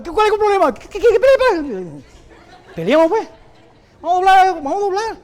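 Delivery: high, loud mock street-fight shouting; angry challenge. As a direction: bark a hammed-up challenge to fight. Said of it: "Yo me pongo bravo". (reto de pelea gritado, agudo y exagerado)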